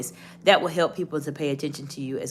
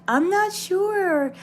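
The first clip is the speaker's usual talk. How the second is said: nervous tone; 12 semitones higher, much slower than usual. Shown as a demonstration. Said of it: "nervous or concerned tone of voice".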